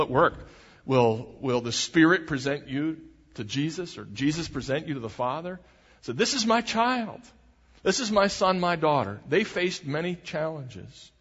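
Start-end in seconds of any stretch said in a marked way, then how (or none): 6.1-9.2 put-on higher-pitched, as if presenting a beloved child; lightly acted fatherly introduction, pitched up; lightly voiced proud presentation. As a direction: announce your own child to the company. God presenting believers, acted out.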